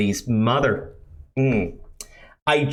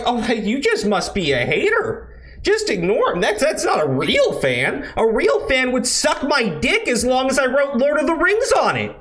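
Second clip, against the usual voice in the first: higher, sneering mock voice with a laugh; mocking smug showrunner; 9 semitones higher than usual. Mocking the showrunners brushing off critics, higher sneering voice. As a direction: lampoon the smug creators dismissing fans. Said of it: "they sit there and they go like".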